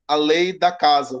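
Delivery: normal talking voice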